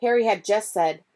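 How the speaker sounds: ordinary delivery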